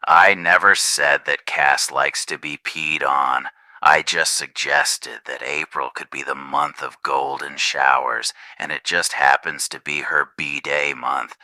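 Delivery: Ghostface voice. Acted. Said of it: "All the messages read by Ghostface".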